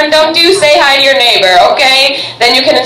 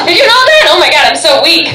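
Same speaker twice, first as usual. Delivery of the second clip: ordinary talk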